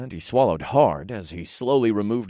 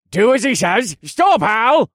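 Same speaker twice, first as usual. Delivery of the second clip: high, loud commanding call; commanding mayor; 13 semitones higher, 8 dB louder than usual. Acted. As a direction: order the crowd to stop him. Mayor orders crowd.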